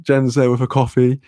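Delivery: ordinary delivery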